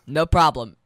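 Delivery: usual speaking voice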